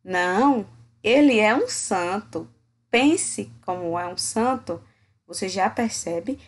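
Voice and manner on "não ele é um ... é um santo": sarcastic, drawn out on "santo"; mocking irony, slowing into "pense como é um santo"; ironic. Shown as a demonstration. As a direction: say "é um santo" meaning the opposite. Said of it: "uma entonação diferente".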